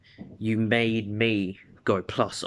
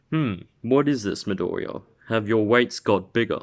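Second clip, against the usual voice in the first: curious mentor voice. Acted. All Might voiced in story.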